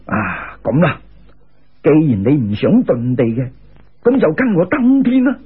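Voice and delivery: put-on low, chuckling old sage voice; laughing immortal. A narrator's reading. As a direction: speak it deep and amused, as a sage laughing. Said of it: "嗰个人听咗哈哈大笑".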